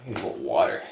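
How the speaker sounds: winded after the set; out of breath. Real, not acted. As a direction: catch your breath.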